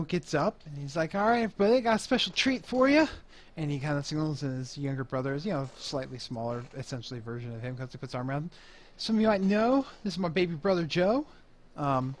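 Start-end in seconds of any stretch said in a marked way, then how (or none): 1.1-3.1 higher, louder emcee pitch; club host announcing. Acted. Club boss announcing a special treat to the crowd, upbeat emcee. 9.0-11.2 lightly voiced emcee, raised pitch; club host introducing. Club boss introducing his baby brother to the crowd, mild emcee voice.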